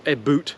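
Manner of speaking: "a boot" as two words, a boot; "a boot", the mocked version; wrong stereotype. Shown as a demonstration. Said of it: "which we don't".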